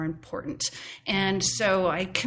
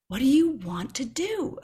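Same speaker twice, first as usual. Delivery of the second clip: laughing; 7 semitones higher, 3 dB louder than usual. Retold or imitated. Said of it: "had this argument with myself".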